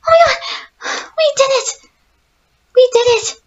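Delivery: high, loud triumphant shout; ecstatic cheer. Real, not acted. Gamer escapes the school, triumphant cheering.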